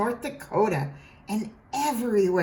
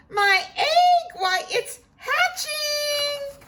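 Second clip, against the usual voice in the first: excited shout; slower than usual. A narrator's reading. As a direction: cry out in amazement. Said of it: "shouted Horton".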